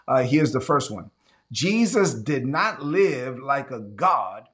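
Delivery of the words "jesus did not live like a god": slow, deliberate. Shown as a demonstration. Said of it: "I'm gonna say it slow".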